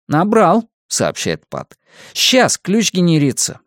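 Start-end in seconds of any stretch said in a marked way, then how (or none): 0.1-0.7 high-pitched report; Pat reporting. A narrator's reading. Pat reports the key is typed, high-pitched. 2.1-3.6 Pat reporting. A narrator's reading. Pat reporting back in dialogue.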